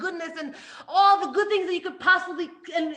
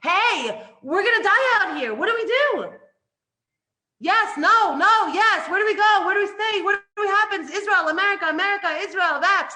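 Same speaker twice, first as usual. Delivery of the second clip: loud, higher, panicky outcry; frantic crowd; 5 semitones higher, 7 dB louder than usual. Retold or imitated. People today echoing the desert panic, loud and frantic. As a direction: shout the confusion in a panic. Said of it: "They're saying the same words".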